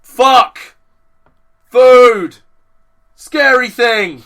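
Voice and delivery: high, loud panicked shrieks; lizard brain yelling. Pretend. Lizard brain shrieks warnings at its owner, panicked yelling. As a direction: yell like a primal lizard brain. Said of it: "lizard brain goes".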